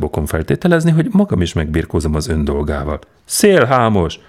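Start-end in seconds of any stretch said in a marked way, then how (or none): 3.2-4.2 a louder, higher howl of outrage; a trembling old man shouting swindler. Acted. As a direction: bellow the insult, shaking. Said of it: "Üvöltött fel Ippolit Matvejevics remegve".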